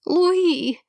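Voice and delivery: calling a daughter from another room. A narrator's reading. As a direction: shout for her from upstairs. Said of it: "позвала Хэнни".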